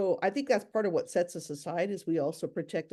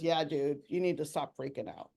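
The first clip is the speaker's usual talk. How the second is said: mellow owl; 2 semitones lower than usual. Pretend. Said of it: "this great horned owl says".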